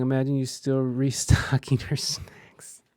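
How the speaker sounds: laughing whisper, slow. Real, not acted. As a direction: tease in a hushed breath. Other voice teasing quietly.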